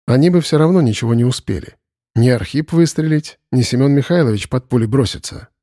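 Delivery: ordinary delivery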